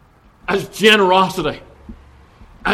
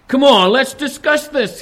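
higher, coaxing tempter's invitation; tempting serpent; 7 semitones higher, 4 dB louder than usual. Acted. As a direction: coax her in like the serpent. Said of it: "he's saying to her".

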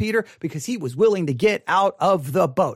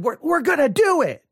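higher-pitched mock enthusiasm; excited congregation; 6 semitones higher than usual. Preacher mimicking everybody after the sermon, excited. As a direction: imitate a fired-up crowd resolving to act. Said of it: "everybody gets all excited".

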